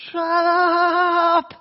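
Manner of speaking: shrill full-volume very high yell, long rising drawl. Retelling screaming back at a man yelling at them in the cab, screaming. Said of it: "I just screamed in the cab".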